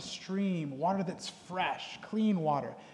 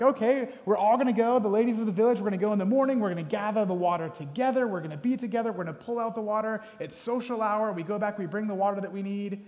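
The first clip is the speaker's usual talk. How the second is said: higher, louder cheerful group of village women; chatty village women; 4 semitones higher, 5 dB louder than usual. Retold or imitated. Preacher voicing village women planning their trip. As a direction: play the ladies chatting on the way to the well.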